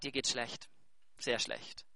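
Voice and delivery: a quiet sober verdict; hushed rebuke. Retold or imitated. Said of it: "Und Jesus sagt".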